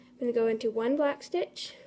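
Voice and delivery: slightly winded while talking; out of breath. Real, not acted. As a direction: speak a little short of breath. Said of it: "I'm kinda out of breath".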